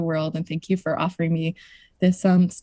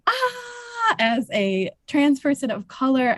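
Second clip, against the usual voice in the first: emotional; 8 semitones higher, slower than usual. Real, not acted. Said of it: "I'm getting emotional".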